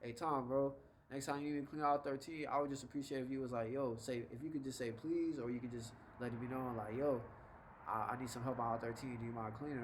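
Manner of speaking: easygoing, softened, polite ask; non-aggressive request. Acted. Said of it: "different ways you could go about your delivery".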